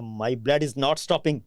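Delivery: put-on English in a Gujranwala desi accent, very slow. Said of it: "Gujranwala کے دیسی لہجے میں کہا".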